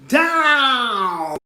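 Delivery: high, loud shrieked cry; ear-splitting shriek. Acted. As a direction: shriek it from far above. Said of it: "An ear-splitting shriek".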